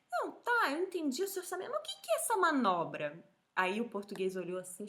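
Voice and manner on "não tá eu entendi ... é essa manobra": higher-pitched husband asking for clarification; retold puzzled husband. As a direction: imitate a confused customer querying the bill. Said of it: "Aí ele falou assim".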